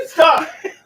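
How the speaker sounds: high, loud yell. Real, not acted. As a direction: shout it out sharply. Drunk man yelling mid outburst.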